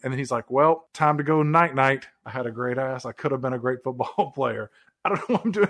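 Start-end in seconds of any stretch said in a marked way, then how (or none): 0.5-4.7 a half-hearted stab at the singer's voice; terrible singer impression. Acted. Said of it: "a terrible impersonation".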